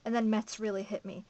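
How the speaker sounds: emphatic first-person novel reading; story narration. A narrator's reading. Reader telling a survivor's account from a novel, emphatic narration. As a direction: read the account out with steady drive.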